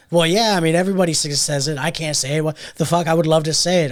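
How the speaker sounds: imitated Boston man, loud and insistent; Boston accent. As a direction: protest loudly in a rough Boston accent. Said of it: "something about his accent".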